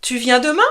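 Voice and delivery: "Tu viens demain?" with pitch climbing on "demain"; rising question tune. Shown as a demonstration. Teacher demos a casual question to students, rising at the end. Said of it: "tu penses à monter le ton à la fin".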